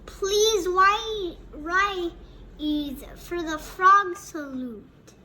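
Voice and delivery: loud, slow classroom call to stand; teacher's announcement. Acted. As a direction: announce it loudly to the whole class. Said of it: "our teacher announces".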